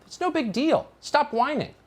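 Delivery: high, sneering mock of the critics; mocking dismissal. Host mocking rival outlets' shrug, high and sneering. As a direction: toss it off like a smug pundit.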